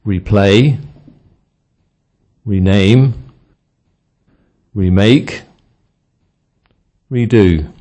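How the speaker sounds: full REE at the start: REE-play, REE-name, REE-make, REE-do; stressed prefix re. Shown as a demonstration. Teacher giving examples of re meaning again, stressed on "re". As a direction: give each "re" its own stress. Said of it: "Stress re if it means again".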